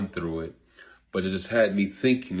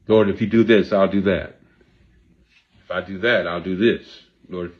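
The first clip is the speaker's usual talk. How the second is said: loud, insistent bargaining with God; pleading prayer; 8 dB louder than usual. Retold or imitated. Grieving person bargaining with God, loud pleading prayer. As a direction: bargain with the Lord out loud, begging.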